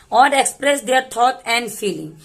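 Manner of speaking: very slow, careful word-by-word reading; slow demonstration. Shown as a demonstration. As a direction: read it out slowly so each word is heard. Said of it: "मैं धीरे धीरे करके बताऊंगी".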